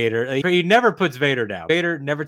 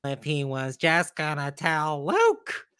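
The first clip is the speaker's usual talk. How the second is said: whiny mocking quote; 3 semitones higher, slower than usual. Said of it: "there are people that are".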